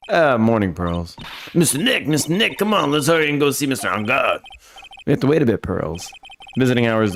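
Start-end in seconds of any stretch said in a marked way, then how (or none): 1.5-4.4 put-on high, urging little-girl voice; eager child Pearl. Pearl urges Mister Nick to visit, high and eager. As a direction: hurry them along in a pitched-up child voice.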